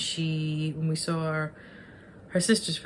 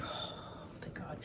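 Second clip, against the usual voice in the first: much softer, barely there; breathy relief; 15 dB quieter than usual. Retold or imitated. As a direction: let it out like a held breath. Retold relief at Triton's return.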